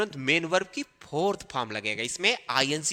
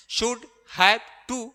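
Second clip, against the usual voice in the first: "should have to" drawn out syllable by syllable; slow drill; 5 semitones higher, much slower than usual. Shown as a demonstration. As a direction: stretch each word for the class. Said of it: "teacher drilling the phrase". (बहुत धीमे, खींचकर बोलना)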